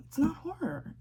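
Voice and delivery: hushed whisper; whispered put-down. Real, not acted. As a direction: whisper it like a secret. Mocking the horror label.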